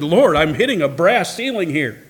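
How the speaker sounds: a frustrated prayer, pushing God for an answer; crying out to God. Pretend. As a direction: believer praying in frustration. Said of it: "cried out to God and said".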